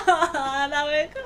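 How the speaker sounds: usual speaking voice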